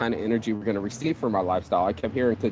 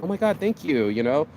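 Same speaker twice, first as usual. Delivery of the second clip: grateful complimentary woman. Retold or imitated.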